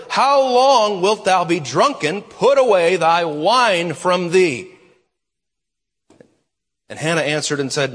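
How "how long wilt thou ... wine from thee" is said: Eli rebuking, louder and slow; a stern priest scolding slowly; stern rebuke. Acted. Preacher voicing Eli scolding Hannah, loud and slow.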